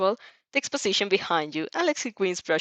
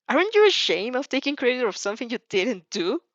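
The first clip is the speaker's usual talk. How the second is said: teasing; 5 semitones higher than usual. Acted. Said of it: "a spark of teasing in your tone".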